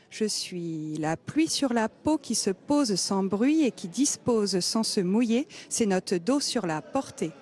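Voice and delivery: déclame comme une poétesse sur scène, en faisant sonner chaque syllabe; prestation de slam. Real, not acted. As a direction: slam poétique déclamé, phrases rythmées et découpées. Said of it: "va nous faire une petite prestation". (slam déclamé en cadence)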